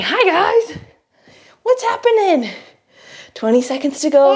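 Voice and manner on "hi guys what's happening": put-on high cooing baby voice; voicing the baby. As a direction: speak for the baby sweetly.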